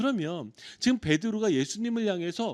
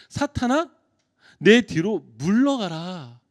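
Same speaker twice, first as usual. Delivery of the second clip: Jesus commanding; 7 dB louder, slower than usual. Acted. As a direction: order Satan back with authority. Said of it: "이렇게 예수님께서 명령하고 계세요".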